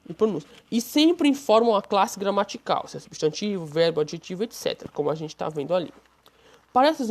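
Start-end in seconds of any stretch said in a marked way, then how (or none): none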